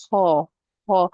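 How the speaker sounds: heavy ha from the top of the throat; ha like a k and an h together; throaty ha. Shown as a demonstration. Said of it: "like a k and a h together".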